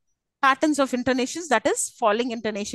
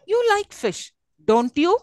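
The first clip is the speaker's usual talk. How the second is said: high "You like fish", then rising "don't you"; loud rising tag on "don't you"; rising question tag; 7 semitones higher, 4 dB louder than usual. Shown as a demonstration. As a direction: lift "don't you" firmly at the end. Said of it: "It's a rising tone".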